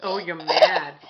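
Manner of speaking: laughing. Real, not acted. Baby frowns, mother laughs.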